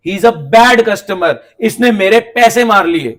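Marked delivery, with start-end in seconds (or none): 0.1-1.3 he is a bad customer said very slowly, word by word; slow and deliberate. Shown as a demonstration. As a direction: spell out each word slowly. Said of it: "अब मैं बोल रहा हूं बैड कस्टमर". (हर शब्द धीरे-धीरे, रुककर)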